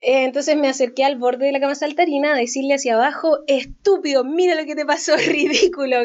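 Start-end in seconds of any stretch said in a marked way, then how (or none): 3.5-6.0 laughing mock scolding. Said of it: "Como riéndome".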